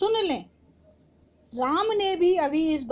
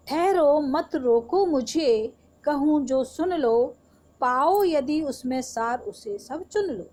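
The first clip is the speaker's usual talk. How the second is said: poem recitation. Acted. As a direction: recite Kaikeyi's stop-me-not lines. Re-recites Kaikeyi's outburst. (दृढ़ स्वर में कविता पाठ)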